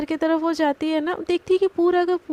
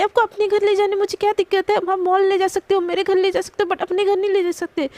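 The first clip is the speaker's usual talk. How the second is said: sudden retold anger, higher and louder; angry outburst; 4 semitones higher, 3 dB louder than usual. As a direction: snap back at her boss, raised and heated. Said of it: "एकदम से गुस्से में बोलती". (अचानक गुस्से में ऊँची, तेज़ आवाज़)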